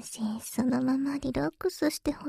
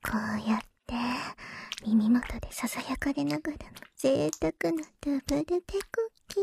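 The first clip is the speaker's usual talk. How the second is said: right in ear; faster than usual. Acted.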